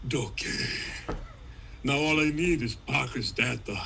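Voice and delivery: put-on Schwarzenegger accent. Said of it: "keep Ock as Arnold Schwarzenegger".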